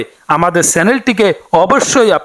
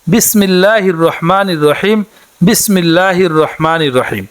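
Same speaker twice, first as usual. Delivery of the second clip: careful recitation. Shown as a demonstration. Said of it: "উচ্চারণটি হচ্ছে".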